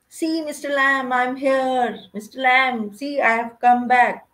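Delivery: put-on boy proudly announcing he came back, mildly excited. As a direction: burst in proud and thrilled at the gate. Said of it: "So he was so excited।".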